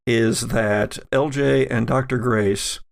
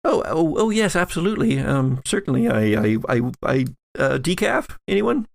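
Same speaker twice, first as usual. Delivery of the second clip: flustered eager hostess. Acted. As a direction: caught off guard, rushing to help. Flustered Joyce answers coffee request.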